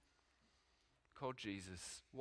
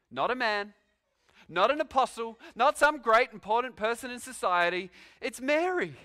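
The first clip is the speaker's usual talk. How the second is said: rising to a ringing, louder, higher proclamation; a swelling sermon climax, higher and louder; building emphasis; 8 semitones higher, 7 dB louder than usual. Real, not acted. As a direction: preach it out, climbing toward the name Mary.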